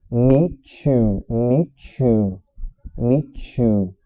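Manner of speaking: loud, repeated 'meet you' as 'mee-chu'; linked MEET YOU. Shown as a demonstration. Teacher drilling the joined words loudly, linked MEET YOU. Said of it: "quando a gente junta o meet".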